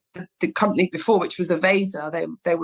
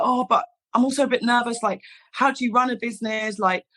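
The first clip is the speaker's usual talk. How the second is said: mock nervous; 4 semitones higher than usual. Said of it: "and I start freaking out".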